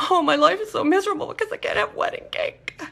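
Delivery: mock self-pity. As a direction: ham up the misery over the wedding cake. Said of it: "You don't mourn about it and go".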